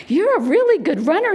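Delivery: put-on high, bubbly praise for a child; enthusiastic praise. Runner praising a smiling little boy, enthusiastic. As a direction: cheer on a little one.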